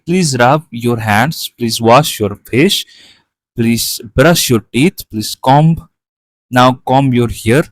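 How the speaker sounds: very slow, deliberate rhyme recital; rhyme reading. Acted. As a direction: read each rhyme line out slowly for the class. (ধীরে ধীরে ছড়া আবৃত্তি)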